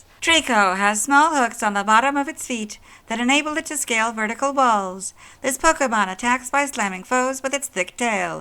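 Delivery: very high, gentle, non-harsh narrating voice. A man doing a cold read of a game entry: Pokémon Ruby voice. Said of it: "read it in that voice".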